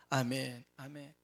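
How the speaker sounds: normal talking voice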